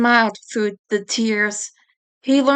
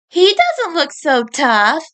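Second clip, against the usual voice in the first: Marie scoffing; 5 semitones higher, slower than usual. Acted. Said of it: "Marie said".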